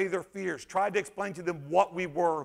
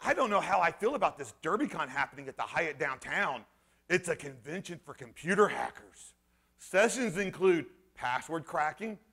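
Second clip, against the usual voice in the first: mock journalist, softer and lower, with swooping intonation; Sterling Riggs; 5 semitones lower, 5 dB quieter than usual. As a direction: lightly parody the writer reading his article. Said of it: "this is how he talks".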